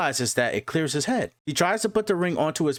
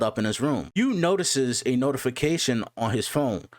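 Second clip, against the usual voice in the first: animated recap narrator, livelier than casual chat; story recap narration. A narrator's reading. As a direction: narrate the chapter with lifted, steady energy. Recaps comic chapter as narrator.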